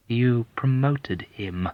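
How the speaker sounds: very slow, sugary needling; sweet reminder. Acted. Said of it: "reminded sweetly".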